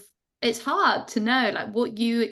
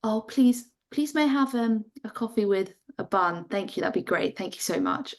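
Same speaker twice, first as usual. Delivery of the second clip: overly polite. Shown as a demonstration. A Brit at the counter ordering coffee, over-the-top polite. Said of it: "we almost, like, too far the other way".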